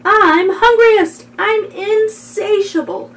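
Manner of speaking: expressive picture-book reading; storybook read-aloud; reading to children. Acted. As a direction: make each word sound like its meaning.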